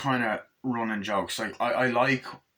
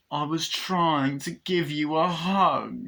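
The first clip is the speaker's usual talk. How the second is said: plaintive doll; 3 semitones higher, slower than usual. Retold or imitated. Acting out the doll's plaintive reply.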